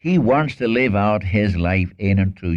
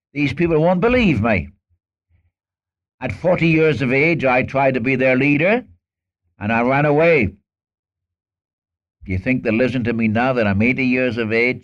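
Moses protesting; 4 semitones higher than usual. Retold or imitated. Moses excuses himself to God.

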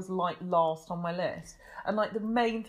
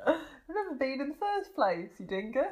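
light mock-Australian accent, pitched up; Australian impression; 6 semitones higher than usual. Joking to co-host about never having visited, mock Australian accent. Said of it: "Did you like my Australian impression".

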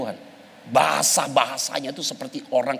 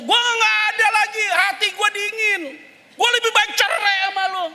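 mimicking wife. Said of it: "Apa bahasanya?".

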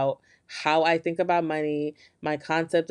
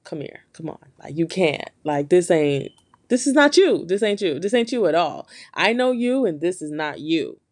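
friend pulling you back. Retold or imitated. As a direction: jolt them like a best friend who won't let go. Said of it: "to be like".

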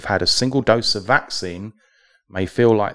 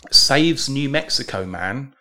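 1 slow dramatic headline; 4 semitones higher, slower than usual. Acted. Headline read slowly.

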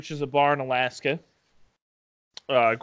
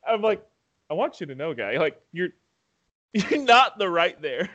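imitating Michael; 6 semitones higher than usual. Friend mimics Michael retelling the bingo-bar door fight, mock swagger. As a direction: put on his bro swagger, pitched up. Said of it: "I'm gonna tell exactly how he says it".

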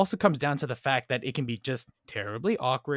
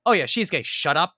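mock Rory; 4 semitones higher, 6 dB louder than usual. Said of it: "Rory is like".

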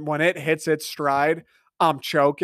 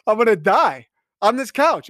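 retold panic; 5 semitones higher, 3 dB louder than usual. Retold panic during a coughing fit.

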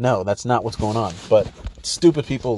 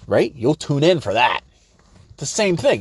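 ordinary delivery

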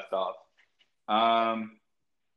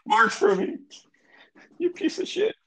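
frustrated cursing. Real, not acted. Phone signal failing, frustrated.

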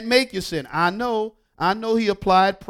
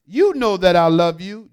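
louder, exasperated protest; insist, aggrieved, with raised volume; frustrated insistence; 5 dB louder than usual. Acted. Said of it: "Peter was grieved, aggravated, frustrated".

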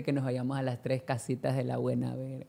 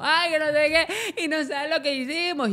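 higher, slow mock gushing; lightly hammed-up drunk chatter; gushing teenager impression, pitch up; chatty retold self; 10 semitones higher than usual. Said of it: "Yo iba como".

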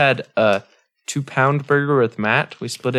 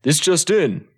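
newscaster voice; 2 semitones higher, slower than usual. Acted. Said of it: "Headline, though".

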